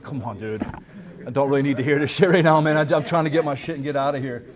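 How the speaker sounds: mock impatient junkie groan; fed-up addict. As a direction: brush off a preacher you don't want to hear. Bored addicts waiting for methadone.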